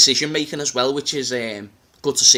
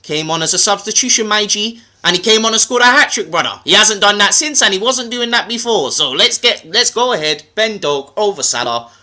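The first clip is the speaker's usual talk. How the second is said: emphatic, higher-pitched London patter; London accent; 4 semitones higher, 3 dB louder than usual. Acted. Making his case to Matisse, in a London accent. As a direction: argue the case in street London. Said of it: "I'll do it in my London accent".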